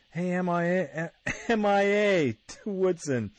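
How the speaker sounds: Al Davis. Retold or imitated. Al Davis hollers to Woodson in banter, shouting out. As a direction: call out high and loud, teasing. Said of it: "he's bantering back and forth".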